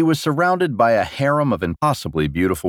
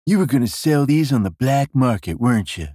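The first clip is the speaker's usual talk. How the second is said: higher-pitched, mildly accusing king; 4 semitones higher than usual. Acted. King confronting a prisoner over a drawing, accusing. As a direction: press the charge as a leading question. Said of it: "Jesden accused".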